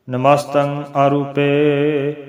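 slow recitation with drawn-out last vowel; measured, lightly chanted verse; scripture recitation. Shown as a demonstration. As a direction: recite evenly and hold the ending. Recites verse before explaining it.

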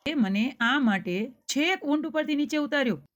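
a hint of the camel rider's indignation; angry. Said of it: "ગુસ્સાથી લાલચોળ થઈ ગયો". (થોડો ગુસ્સો, ઊંચા સ્વરે)

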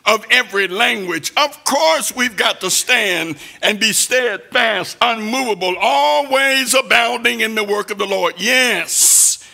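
rising, pounding sermon delivery; preaching at full force. Acted. Preacher warning the church about temptation, pounding sermon voice. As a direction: preach it hard at the congregation.

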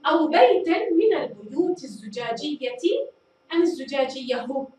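الزجاجية said first with ia, then with iyahu; endings compared. Shown as a demonstration. Teacher asks pupils to choose the ending, contrasting takes. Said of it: "من التي تكون أضبط هنا؟".

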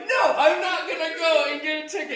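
high, loud refusal; retold indignant protest. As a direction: protest loudly, pitch jumping up. Retold protest to friend in car.

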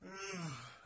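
long tired yawn; sighing yawn. Real, not acted. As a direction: let out a weary yawn. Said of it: "I didn't mean to yawn".

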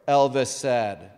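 stage reading of famous lines; dramatic recitation. Acted. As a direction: read each quote like a performance. Reads famous quotes aloud at event.

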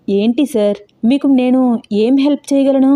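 taken aback, voice climbing; surprised. Acted. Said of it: "ఆశ్చర్యంగా చూస్తూ అన్నాడు".

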